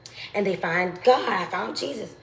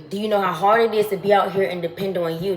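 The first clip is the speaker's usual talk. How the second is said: louder, pressing the question; louder, pointed repeat; emphatic repeat; 4 dB louder, faster than usual. Real, not acted. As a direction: push the question home to them.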